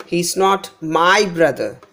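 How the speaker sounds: "my" stressed, then brother falling; he is not MY brother, stressed to correct someone. Shown as a demonstration. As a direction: put the weight on my before brother. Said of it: "So here my is given more importance".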